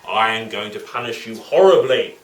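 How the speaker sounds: lightly acted anger, firmly projected; cross magistrate. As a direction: threaten punishment like a cross magistrate. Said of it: "magistrate was very cross with her".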